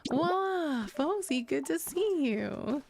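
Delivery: high, delighted welcome; excited greeting. Real, not acted. Streamer greeting a viewer who turns up, high excited welcome. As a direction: greet them in a high, drawn-out gush.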